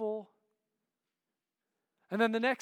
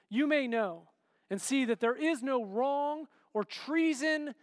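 raised, pleading call across the rocks; 4 semitones higher, 3 dB louder than usual. Acted. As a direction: call up to the king from a distance. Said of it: "And he shouts to him".

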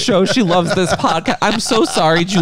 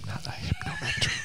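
high shouted protest; shocked shriek; 14 dB quieter than usual. Real, not acted. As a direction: squeal it in disbelief. Mocks the coined word.

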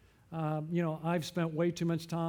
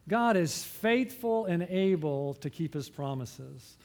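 slow, measured creed said with the church; unison declaration. Shown as a demonstration. Pastor leading the congregation in unison, slow and steady. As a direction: lead the room in saying it together. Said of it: "Would you say that with me?".

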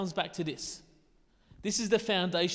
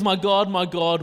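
loud cry; 10 dB louder than usual. A narrator's reading. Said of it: "called out with a loud voice".

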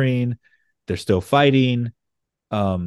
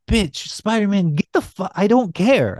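higher-pitched mock villain voice, lightly hammed; mock Hobgoblin rant; 9 semitones higher than usual. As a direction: squeal it like a greedy villain. Hobgoblin voiced in retold scene.

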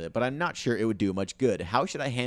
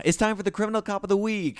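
announcer voice; 9 semitones higher, faster than usual. Acted. Announcing a podcast segment.

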